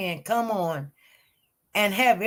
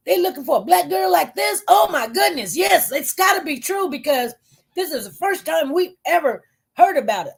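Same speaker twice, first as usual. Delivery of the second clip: high-pitched mock disbelief; retold astonishment; 6 semitones higher than usual. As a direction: act out a crowd's amazed reaction. Acted group reaction of disbelief.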